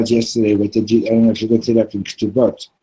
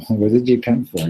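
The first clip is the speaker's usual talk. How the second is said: puzzled inner question at usual pitch; silent wondering. Acted. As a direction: wonder it to yourself, understated. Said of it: "wondering, like".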